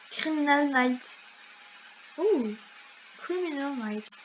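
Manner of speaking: English words in a strong French accent; thick French accent on English. Real, not acted. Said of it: "Mon accent anglais n'est pas très, très développé".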